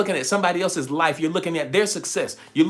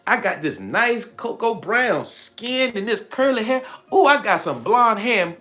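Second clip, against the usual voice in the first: higher, slow, delighted self-admiration; admiring herself; 5 semitones higher, slower than usual. Pretend. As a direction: show off the new look with glee. Soul admiring its new avatar.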